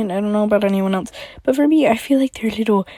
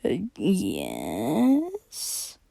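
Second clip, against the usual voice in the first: awkward; 4 semitones lower, 7 dB quieter than usual. Acted. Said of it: "she said awkwardly".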